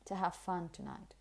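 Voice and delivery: quiet, easy phrase with reduced "to"; relaxed weak form. Shown as a demonstration. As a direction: relax "to" before "have". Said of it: "in a very relaxed and weak way".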